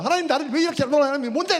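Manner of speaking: high, loud, rapid railing at God; angry shouted prayer. Retold or imitated. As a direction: act out cursing at God in prayer. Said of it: "욕을 하니까".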